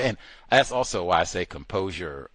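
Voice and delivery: ordinary talk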